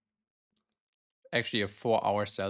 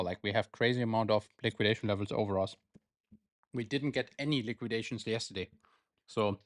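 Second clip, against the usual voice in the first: chewing while talking. Real, not acted. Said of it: "me eating here".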